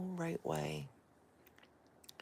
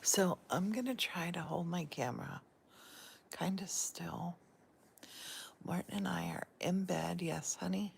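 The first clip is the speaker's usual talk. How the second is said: whispering. Real, not acted. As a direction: keep it a hushed bedside whisper. Whispers all through, in bed.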